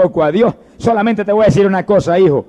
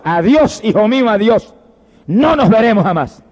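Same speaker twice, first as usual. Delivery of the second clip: final farewell; 4 semitones higher than usual. Acted. Mother's final farewell to lost son.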